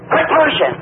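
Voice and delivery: high-pitched crowd yell; imitated hollering. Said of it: "everybody hollered".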